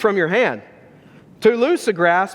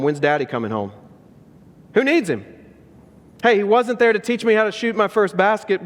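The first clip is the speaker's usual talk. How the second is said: hurt outburst; 3 semitones higher than usual. Retold or imitated. Will lashing out, hurt.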